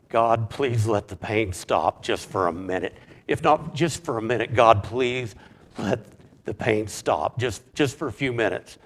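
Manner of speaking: pleading, leaning hard on the key words; urgent, earnest plea retold; begging. Retelling his own desperate prayer to God, begging. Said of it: "I was just begging God".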